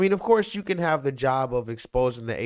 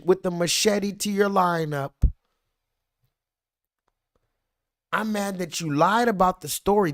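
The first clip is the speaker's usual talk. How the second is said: heated rant; 6 semitones higher than usual. Real, not acted. Angry rant answering the hype.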